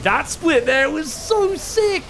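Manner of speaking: high, slow, drawn-out praise; awed excitement. Real, not acted. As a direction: savour the amazing play with rising excitement. Marvels at the replayed split.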